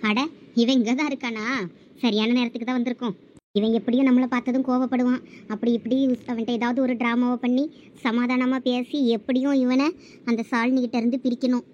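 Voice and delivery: a plotting woman muttering her plan; scheming ex-lover. Acted. Scheming ex plots aloud.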